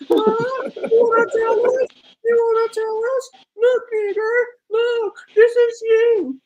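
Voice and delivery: mocking impression. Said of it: "They know that's how he sound".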